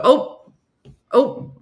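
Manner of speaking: a quick little yelp on bumping someone; bumped-into "ope". Retold or imitated. Imitating Wisconsin man bumping into someone, quick startled "ope". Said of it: "if we bump into you, we go".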